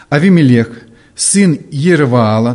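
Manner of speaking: measured, emphatic Bible reading; scripture reading. Acted. Preacher opening the passage for listeners, scripture reading. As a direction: read the verse out firmly.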